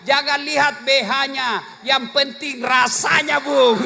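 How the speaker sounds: slow teasing wife, ending in a laughing shout; cheeky wife. Retold or imitated. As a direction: drawl the punchline, then burst out laughing. Wife's cheeky reply, slow. (istri menjawab suami dengan nakal, pelan lalu tertawa)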